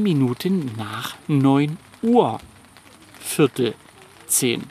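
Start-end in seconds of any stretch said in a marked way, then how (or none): 3.2-4.6 Viertel ... zehn, two separate slow words; Viertel zehn, slow and spaced. Shown as a demonstration. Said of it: "kleine Uhrenkunde".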